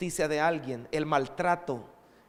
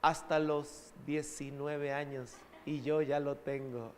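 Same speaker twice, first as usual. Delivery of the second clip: teasing daughter; 4 dB quieter, slower than usual. Retold or imitated. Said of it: "ella se burla de mí".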